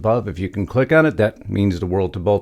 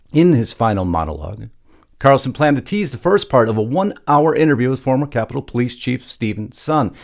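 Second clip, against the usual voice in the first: raised, louder news-script delivery; news story read; 4 semitones higher, 3 dB louder than usual. Acted. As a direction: read the script out with punchy emphasis.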